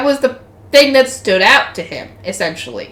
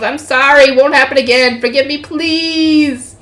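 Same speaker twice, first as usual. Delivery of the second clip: pleading apology; 2 semitones higher than usual. Acted. Kowtowing character begs forgiveness.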